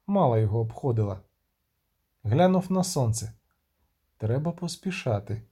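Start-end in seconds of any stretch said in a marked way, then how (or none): 4.2-5.4 thought to himself. Acted. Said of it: "подумав".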